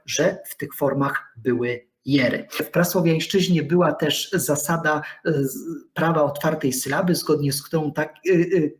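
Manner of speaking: ordinary talk, nothing marked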